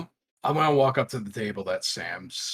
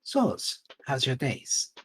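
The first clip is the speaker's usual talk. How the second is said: high, friendly greeting pitched well up; chirpy in-character hello to a bartender; character voice to Sam; 5 semitones higher than usual. Acted. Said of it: "look at Sam and go".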